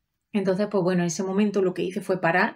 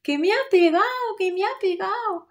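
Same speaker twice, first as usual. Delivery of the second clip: put-on crying child; 12 semitones higher than usual. Little daughter crying to her mother while being combed, high tearful wail. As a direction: sob it like a small girl who was hit. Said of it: "de repente empieza a llorar".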